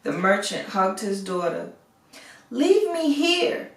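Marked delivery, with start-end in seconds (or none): 2.5-3.7 high, slow desperate plea; pleading. A narrator's reading. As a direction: beg her to leave him behind. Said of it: "he pleaded".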